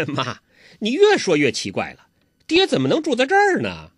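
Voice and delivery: lightly laughing, a touch incredulous; laughing son. Acted. Son laughs at his mother's odd talk, amused. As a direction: son chuckles at his mother's strange words. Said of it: "完颜康笑了".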